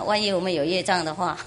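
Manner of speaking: quick words through a chuckle; amused, speeding up with a laugh. Real, not acted. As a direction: laugh as you say it. Laughing while teaching.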